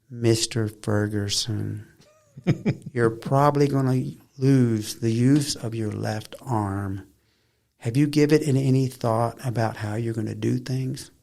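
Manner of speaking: slow, drawn-out, overly careful hospital voice; mock social worker. Mocking the social workers who visited him in hospital, slow and careful. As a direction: lightly mimic a patronizing social worker. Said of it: "That's how they talk".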